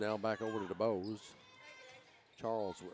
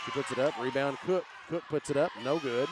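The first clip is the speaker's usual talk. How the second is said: louder calls through a rebound scramble; urgent, raised live commentary; excited play-by-play; 4 semitones higher, 5 dB louder than usual. Real, not acted. Rapid scramble for rebounds at basket.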